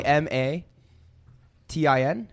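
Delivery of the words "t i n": slow spelling. Real, not acted. Spelling slowly, unsure.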